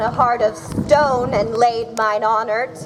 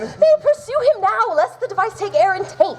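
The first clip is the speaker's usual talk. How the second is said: laughing; 9 semitones higher than usual. Acted. Maria laughing at the plot.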